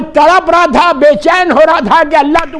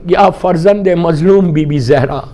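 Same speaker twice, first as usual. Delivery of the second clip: slow invocation; 9 semitones lower, slower than usual. Shown as a demonstration. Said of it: "تو تو یہ بول".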